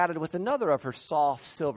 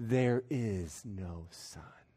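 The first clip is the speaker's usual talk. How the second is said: low, very slow, solemn and grave delivery; 8 semitones lower, 8 dB quieter than usual. Repeating the statement to a silent group: slow and grave. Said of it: "Slowly and gravely, the rich repeated".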